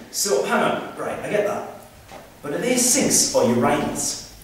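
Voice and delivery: softly voiced Geordie lad; Geordie accent. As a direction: lightly play a puzzled Geordie, slowing down. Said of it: "conversation between a Geordie and his".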